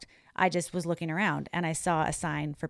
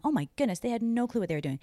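surprised; 6 semitones higher, faster than usual. Retold or imitated. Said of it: "I'm like".

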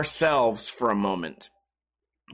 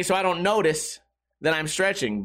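ordinary talk, nothing marked

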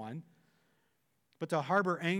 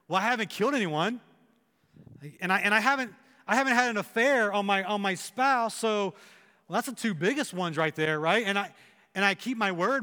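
self-justifying; 3 semitones higher, 4 dB louder than usual. Retold or imitated. Listeners voiced justifying themselves.

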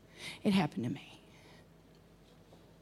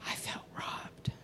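very soft, slow, near whisper; hushed hurt confession; 15 dB quieter, slower than usual. Real, not acted. Preacher telling the church what the theft did, hushed. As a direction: confess it almost without voice.

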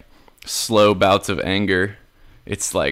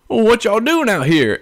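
mock kid voice; 12 semitones higher than usual. Imitating kid in parking lot.

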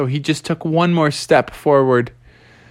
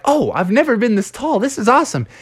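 high excited skunk; excited rallying call; giant Stinky; 8 semitones higher than usual. Acted. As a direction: giant skunk calling for basketball. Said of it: "Stinky was like".

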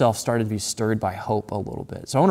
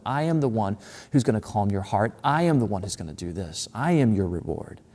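soft, reassuring repetition of "I am"; tender, hushed reassurance; tender promise; 4 dB quieter than usual. Acted. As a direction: speak it gently, as a comfort. Voicing God's promise tenderly.

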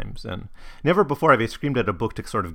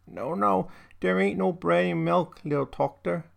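put-on higher-pitched German-accented mother; German immigrant mother; 8 semitones higher than usual. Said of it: "this is in this dialect".

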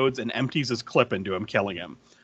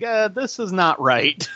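imitated objection; 7 semitones higher, slower than usual. Voices critical viewers.

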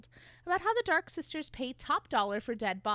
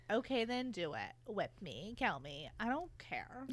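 Tessa's defiant voice; 2 semitones lower than usual. Acted. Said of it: "Tessa doesn't back down and is like".

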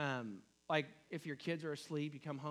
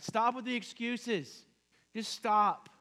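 stern parent; 6 semitones higher, 7 dB louder, slower than usual. Retold or imitated. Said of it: "this is how we would react as a parent".

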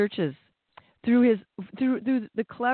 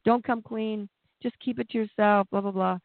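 mock fearful shame; 3 semitones higher than usual. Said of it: "Shame says".

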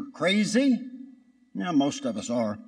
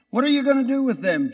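high questioning; 8 semitones higher, much faster than usual. Retold or imitated. Jesus questions Satan.

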